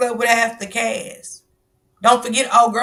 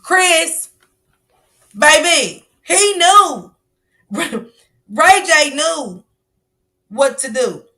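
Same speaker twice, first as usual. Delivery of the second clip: higher, giddy praise with a laugh; gushing tease; 5 semitones higher, much slower than usual. Real, not acted. Teasing the audience about a singer, giddy and high. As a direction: hype him up, tickled and teasing.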